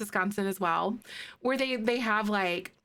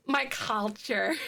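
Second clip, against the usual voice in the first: mock offended; slower than usual. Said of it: "insulting my culture".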